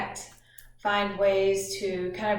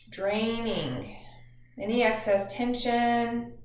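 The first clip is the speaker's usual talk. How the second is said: measured instructions with long pauses; guided meditation. Acted. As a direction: guide listeners gently through breathing, drawing out phrase endings.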